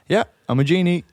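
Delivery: casual, unfazed genie reply; understated, everyday genie; matter-of-fact genie. Acted. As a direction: play the genie as totally unimpressed. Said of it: "he's remarkably matter of fact".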